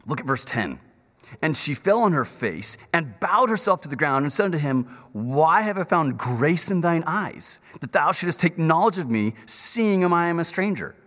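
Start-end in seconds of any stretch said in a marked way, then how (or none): 1.4-10.9 scripture reading. Acted. Reads scripture aloud.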